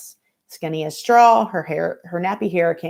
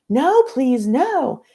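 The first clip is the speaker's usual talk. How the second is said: terrified pleading; 8 semitones higher, 5 dB louder, much slower than usual. Acted. New girl dragged, screaming.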